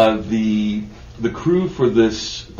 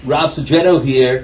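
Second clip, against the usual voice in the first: smooth radio announcer voice; 4 dB louder than usual. Pretend. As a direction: announce your name like a DJ. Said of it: "There's my radio voice".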